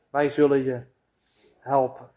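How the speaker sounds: a tempter murmuring a false promise; low lulling promise. Acted. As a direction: coax her gently to trust you.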